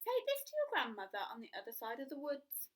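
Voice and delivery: kindly mum sending her off; mother's voice. Acted.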